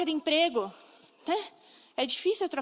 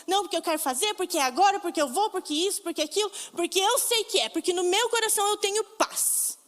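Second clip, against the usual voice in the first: anxious rush; 4 semitones higher than usual. Retold or imitated. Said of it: "nós somos afobados, nós temos aquela coisa de ansiedade".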